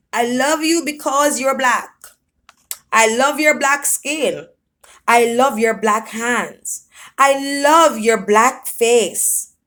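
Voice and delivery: laughing while reading aloud a letter; mock-tender letter, barely holding in laughter; reading through laughter. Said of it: "Boys were shaking with spasms of laughter".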